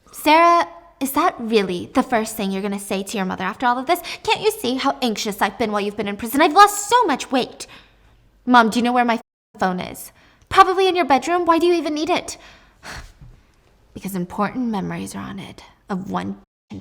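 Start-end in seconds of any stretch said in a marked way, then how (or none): 0.1-7.7 nagging mom voice. Acted. Mother scolds daughter out of jail. 10.5-12.4 nagging mom voice. Acted. Mother answers daughter.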